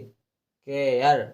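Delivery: केयर drawn out slowly as "ke-yar"; model pronunciation. Shown as a demonstration. Teacher shows the rule on an example, केयर drawn out as "ke-yar". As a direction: stretch केयर, sounding the "eyar" ending. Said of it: "एयर लगा के पढ़ेंगे".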